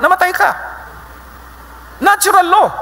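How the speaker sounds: emphatic. Real, not acted. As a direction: drive the point home hard. Preacher punches the lesson.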